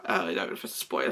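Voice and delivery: whispered aside. Real, not acted. Aside, unsure about spoiling.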